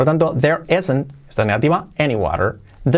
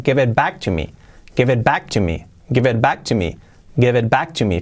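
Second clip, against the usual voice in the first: quick connected teaching demo; said quickly. Shown as a demonstration. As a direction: run the words together, "gevet back to me". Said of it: "Dicho rápido". (dicho rápido, todo seguido)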